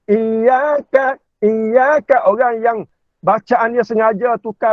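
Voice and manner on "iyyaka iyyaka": iyyaka said higher, with the y doubled; bacaan bersabdu. Shown as a demonstration. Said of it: "Kita yang sewajibnya". (iyyaka dengan sabdu ditekan)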